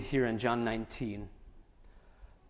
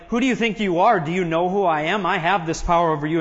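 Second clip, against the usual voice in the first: indignant authority; 2 semitones higher, 5 dB louder, faster than usual. Acted. Pilate asserting his power over silent Jesus, indignant. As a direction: pull rank on him, quickening as you go.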